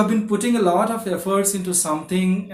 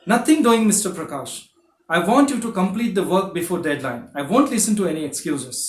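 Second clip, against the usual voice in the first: angry boss. Acted. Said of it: "an angry boss may say".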